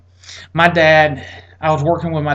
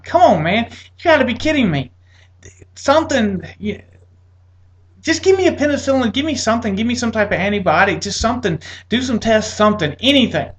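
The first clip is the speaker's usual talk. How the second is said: higher, pleading disbelief; exasperated plea; 5 semitones higher than usual. Retold or imitated. To the doctor dismissing him, exasperated higher plea. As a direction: beg him for any real treatment.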